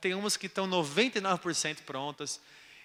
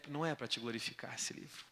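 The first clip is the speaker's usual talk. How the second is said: quiet confession; 6 semitones lower, 13 dB quieter than usual. Retold or imitated. Confessing false prayer, fading.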